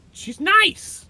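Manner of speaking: very high mocking sweet voice; sarcastic. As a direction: say it with fake sweetness.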